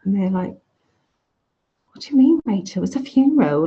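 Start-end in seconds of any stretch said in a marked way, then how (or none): 1.9-3.7 sharp, higher, louder rebuke that quickly settles; cross grown-up. Retold or imitated. Relatives at the funeral scolding young Rachel, cross retort. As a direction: retell the family snapping at the odd child. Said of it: "like, really cross with me".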